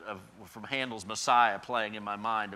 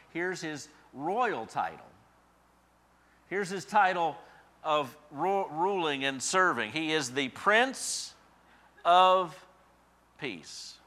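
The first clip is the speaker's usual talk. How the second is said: slow solemn build; 4 semitones higher, 6 dB louder, slower than usual. Real, not acted. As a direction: savour each word of the title. Slow royal title climax.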